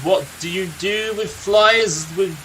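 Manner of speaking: a lightly voiced grizzled old storyteller, unhurried; a gruff old warrior recounting his friend's youth; storyteller NPC. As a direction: tell the tale like a weary veteran by the fire.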